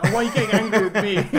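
high, fast, laughing mock of a wounded dad; dad's indignant whine. Daughter mocking her dad after losing her rag, high and fast. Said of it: "my dad's just like".

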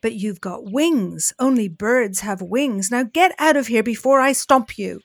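threatening Zebra. Acted. Zebra chasing Bat from the party, angry threat.

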